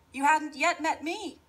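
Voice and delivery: put-on cheerful girl voice. Rosaline calls back.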